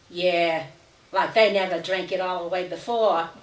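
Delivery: a touch of talking down to her sisters; condescending voice. Acted. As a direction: lightly make them feel stupid. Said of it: "said in that voice that made her sisters feel stupid".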